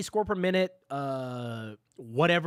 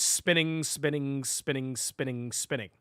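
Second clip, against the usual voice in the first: dizzy spiraling repetition; 2 semitones lower than usual. Pretend. Streamer whose mind is spinning from one question, dizzily spiraling. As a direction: repeat in an even chain, sinking steadily in pitch.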